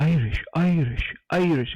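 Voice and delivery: slow, shaky-handed stab at Irish accent; attempted Irish accent. Shown as a demonstration. Warming up for a Seamus joke, attempted Irish accent. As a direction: try on an Irish accent, slowly. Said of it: "can I do the accent?".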